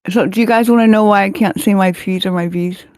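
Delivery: P's slipping into F sounds; paralyzed lips. Real, not acted. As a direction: talk with numb lips that can't close on P. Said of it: "can't talk 'cause my lips are paralyzed".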